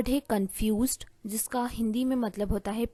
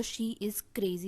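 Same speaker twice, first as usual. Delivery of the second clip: whisper; 6 dB quieter, much slower than usual. Shown as a demonstration. Example sentence.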